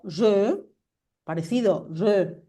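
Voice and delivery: "je" over-rounded, fish-mouthed; exaggerated closed JE. Shown as a demonstration. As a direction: exaggerate the pursed vowel in "je". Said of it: "Un poco exagerado". («je» exagerado, boca de pececito)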